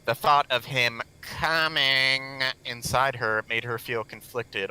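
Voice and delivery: slow, monotone robot reading. Pretend. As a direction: read it like a bored robot. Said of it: "I'm going to read it in a robot voice".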